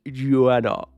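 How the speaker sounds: Joanna said slowly with a long open a, Jo-AH-na; Joanna drawn out. Shown as a demonstration. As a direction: stretch the name Joanna grandly. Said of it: "You gotta say it like this".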